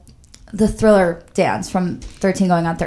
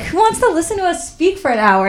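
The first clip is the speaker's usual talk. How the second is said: mock fishing for compliments; 10 semitones higher than usual. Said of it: "that's what you said".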